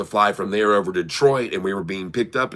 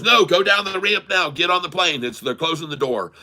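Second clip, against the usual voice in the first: high-pitched, urgent retold command; 7 semitones higher than usual. Gate agent sending latecomers onto the plane, urgent. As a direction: hurry them along, starting high and easing down.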